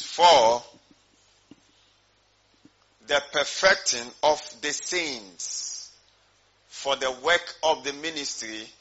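emphatic, measured verse reading; deliberate pulpit Bible reading with long pauses; scripture reading. Real, not acted. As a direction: hit the first word loudly, then proclaim it phrase by phrase. Reads a Bible verse aloud.

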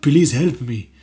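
"Please help me" in movie Arabic accent; film Arabic accent. Shown as a demonstration. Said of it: "switch it a little bit into this other accent".

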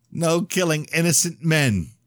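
high, scornful mockery; mocking. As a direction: throw his words back scornfully. Mocking echo of priest.

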